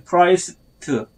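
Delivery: 크라이스트 with a barely released 트; weak final 트. Shown as a demonstration. Teacher drilling Christ for learners, weak final 트. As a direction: soften just the last 트 of 크라이스트. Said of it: "약하게 발음해요".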